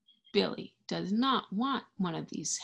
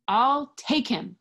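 Billy's line; 4 semitones higher, 5 dB louder than usual. Acted.

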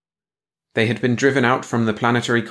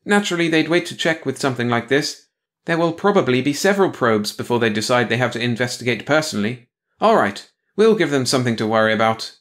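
cold logic; 3 semitones higher than usual. Acted. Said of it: "quickly masked by cold logic".

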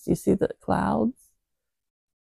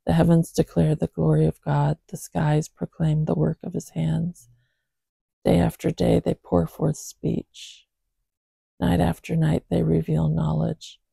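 scripture reading. Acted. Reads psalm verses aloud.

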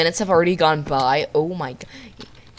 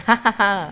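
gloating laugh; 4 dB louder than usual. Pretend. Gloating after a prank.

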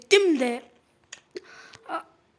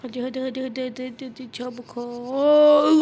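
urging on; 6 dB louder than usual. Real, not acted. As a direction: push the character along, louder at the end. Urging the game character on.

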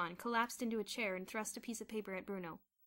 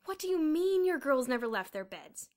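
loud, raised, outraged question; indignant demand; 6 semitones higher, 10 dB louder than usual. A narrator's reading. Headmaster phoning Miss Scrimmage, indignant demand. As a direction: demand an answer angrily. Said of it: "demanded Mister Sturgeon".

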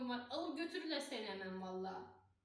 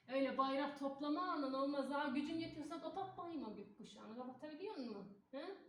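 taunting; 4 semitones higher than usual. Acted. Taunting police over the rainbow.

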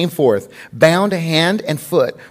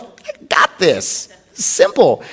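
smug; much slower than usual. Retold or imitated. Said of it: "all proud of myself".

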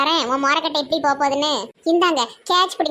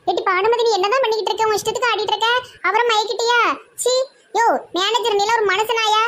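higher-pitched outraged accusation; indignant scolding; 7 semitones higher than usual. Acted. Woman confronting Banumathi and the manager, indignant scolding. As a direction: tell them off in a high, indignant voice.

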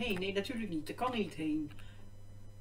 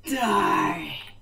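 shout; 5 dB louder than usual. Real, not acted. Spots the spot, calls out.

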